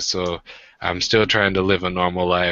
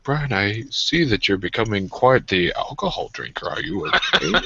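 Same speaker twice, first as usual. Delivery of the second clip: mom voice. Retold or imitated. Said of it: "she'd be like".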